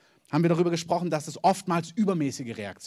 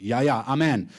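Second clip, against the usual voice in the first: mock agreement; 3 semitones lower, 4 dB louder than usual. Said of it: "man nickt und sagt".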